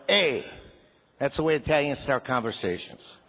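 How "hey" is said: Italian immigrant dad's greeting; brief "hey" with an Italian accent; mock Italian-English hail; Italian father. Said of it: "he walked up to me and he went".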